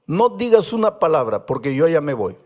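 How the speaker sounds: curt, brushing off with a laugh; half-laughing mock defiance; boy dismissing the pastor, casual; defiant boy. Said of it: "me dice así".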